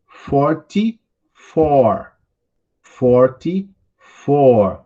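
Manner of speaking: "Forty-four" drawn out syllable by syllable; very slow model reading. Shown as a demonstration. Teacher to class repeating after him: very slow, careful. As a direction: read "Forty-four" slowly for students to copy. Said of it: "vocês podem ir repetindo aí comigo".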